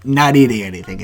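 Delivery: high, loud self-pep talk; manic resolve. Retold or imitated. Fighter hyping himself into a brutal weight cut, high and loud. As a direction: squeal the crazy plan out loud. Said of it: "I just go".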